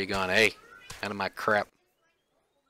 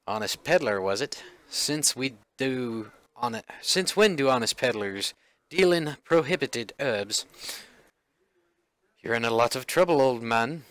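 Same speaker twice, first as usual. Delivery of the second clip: lightly put-on British officer; British accent. Officer accusing peddler over prohibited herbs, British accent. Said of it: "like, British?".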